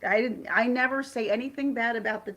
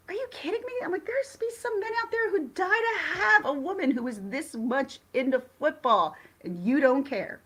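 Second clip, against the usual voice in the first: much higher, mock-outraged pitch; incredulous retort; 7 semitones higher than usual. Retorting to her husband who wants her out, incredulous and high. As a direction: squeal it back in disbelief.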